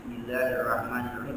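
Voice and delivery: Bismillahirrahmanirrahim diulang lebih rendah dan pelan; lebih lirih. Shown as a demonstration. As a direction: ulangi lirih, seperti bergumam. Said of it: "Nah, itu yang benar". (Bismillahirrahmanirrahim diucapkan lirih dan rendah)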